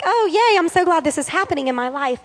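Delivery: hammed-up fake delight at bad news; mock-happy squeal of false joy; mock cheer. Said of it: "you're like".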